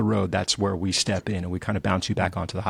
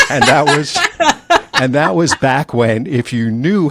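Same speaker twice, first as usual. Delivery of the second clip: words pushed out through laughter, louder; laughing while talking; 6 semitones higher, 11 dB louder, slower than usual. Real, not acted. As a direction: still laughing as you go on.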